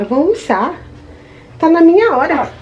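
put-on mother prompting her baby, answered in his high little voice; voicing the baby. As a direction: say it as the baby would, high and cute.

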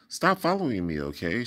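lightly voiced annoyance; Dory snapping at the fish following her; mild exasperation. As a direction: brush him off with a hint of anger. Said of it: "she exclaimed".

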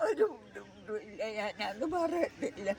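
real tearful denial; weepy, subdued protest; crying. Real, not acted. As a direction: answer softly while crying. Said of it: "പിന്നെന്തിനാ കരയുന്നേ".

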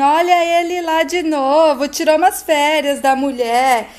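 retold shouting, climbing in pitch toward the end; mild mock shouting. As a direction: act out yelling without full volume. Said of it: "Heloísa começa a gritar".

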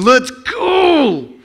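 put-on loud urgent call to the kids; mom shouting. Mother in the crowd shouting at her kids. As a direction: shout to hurry your kids along.

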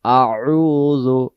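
"আউযু" said very slowly and carefully; teacher to students, modelling "আউযু" slowly; slow model word. Shown as a demonstration. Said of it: "আমার সাথে জপবেন".

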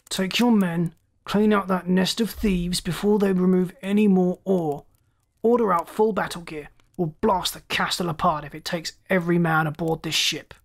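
lightly voiced irate commander; angry captain. Captain orders his lieutenant to attack, mildly angry. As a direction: issue orders with a touch of fury.

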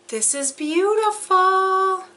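high, delighted exclamation; thrilled at the necklace; real excited awe; delighted gasp. Real, not acted. Admiring the necklace.

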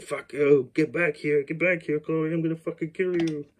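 high, loud mock psycho yell; exaggerated killer rant. Killer yelling after the girl who fled, hammed-up high shout. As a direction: ham up the killer snarling at her. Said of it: "he doesn't sound like that, but it's really funny to me to make him sound like that".

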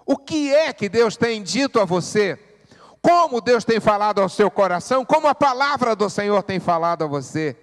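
loud, high, urgent pulpit preaching; full-force preaching. Acted. Pastor urges the congregation, loud fervent preaching.

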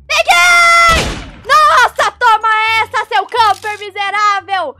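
loud high victory yell; triumphant shout. Real, not acted. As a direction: scream with triumph. Catching the camper.

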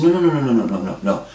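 emphatic no. Retold or imitated. Receptionist frantically corrects a patient.

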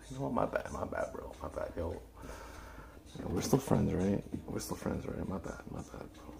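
hushed, sheepish backpedalling; sheepish apology. Pretend. Streamer caught wrongly accusing a subscriber, sheepish apology. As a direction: drop your voice and plead to stay friends. Backing down after learning he subscribed.

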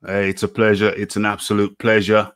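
ordinary delivery

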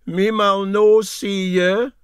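high, loud, slow put-on voice; odd put-on voice. Captain's comic aside to Doogie, put-on voice. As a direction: say it in a comic altered voice.

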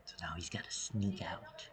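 real hushed whisper. Real, not acted. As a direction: whisper as if they could hear you. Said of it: "Why am I whispering?".

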